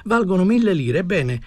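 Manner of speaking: high-pitched, insistent sales pitch; eager pleading salesman. Acted. Desperate man selling his goods to an old woman, eagerly pleading. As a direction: list the goods eagerly, voice lifted.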